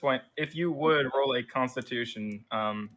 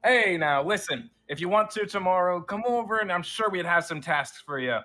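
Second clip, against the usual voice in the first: higher, hearty officer inviting them back; warm, upbeat commander offering more work; friendly general; 3 semitones higher than usual. Acted. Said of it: "and he's like".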